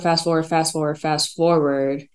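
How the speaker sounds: slowed mock fast forward.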